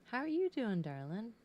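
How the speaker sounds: high, bright hello; cooing hello; sing-song greeting. Real, not acted. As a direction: greet them up high and sweet. Greeting again.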